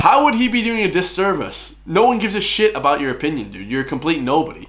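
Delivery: incredulous, high-pitched comeback easing into blunt dismissal; scornful retort. Real, not acted. Reactor hits back at the man in the video, scornful. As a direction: start high and indignant, then put him down.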